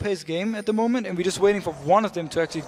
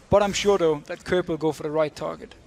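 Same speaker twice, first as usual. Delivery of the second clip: slightly doubtful, mock-assured remark; hint of sarcasm; 2 semitones lower than usual. Real, not acted. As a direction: claim to be sure without quite sounding it. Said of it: "slight hint of sarcasm".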